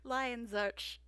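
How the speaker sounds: laughing through the correction; giggling, slow self-correction. Real, not acted. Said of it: "L A is just easier to say".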